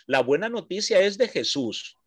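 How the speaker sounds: La buena noticia es de Jesús, repeated for emphasis; stress on Jesús. Shown as a demonstration. Teacher repeating his point to the class, stress on de Jesús. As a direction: say it again and lean on de Jesús. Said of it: "Lo vuelvo a repetir".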